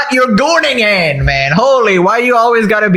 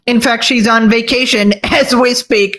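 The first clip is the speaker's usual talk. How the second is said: lightly voiced nasal-free Pee-wee impression, slowed in places; a hint of Pee-wee Herman as the Twitch boss. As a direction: play a boss in a goofy Pee-wee style. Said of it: "Why you gotta use Pee-wee Herman".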